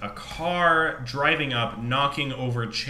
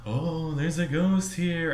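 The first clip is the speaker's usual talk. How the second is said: mock tour guide; 2 semitones higher, slower than usual. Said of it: "doing all this cheesy shit like".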